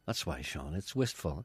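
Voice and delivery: soft wistful. Acted. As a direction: murmur it dreamily.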